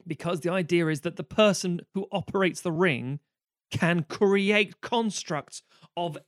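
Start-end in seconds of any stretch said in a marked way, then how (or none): 3.7-6.2 building excitement. Real, not acted. Excited rant about Green Lantern.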